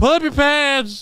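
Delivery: put-on elderly man's voice, slow and high. Telling people to pull up their pants: put-on old man voice. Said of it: "Sound like an old man".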